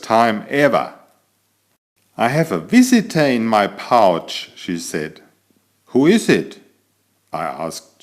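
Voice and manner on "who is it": surprised. Acted. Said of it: "super surprised".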